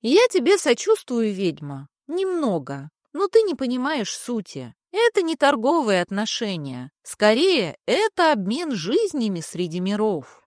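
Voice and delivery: pompous. Acted. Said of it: "высокопарно воздел руки".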